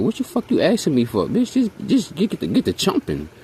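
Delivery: mock exasperated retort. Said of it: "I'd be like".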